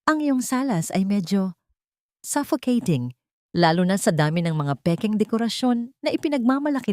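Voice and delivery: lightly voiced heiress, cool and proud; cool, cutting heiress. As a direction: coolly belittle his gaudy house. Isabela's cold retort.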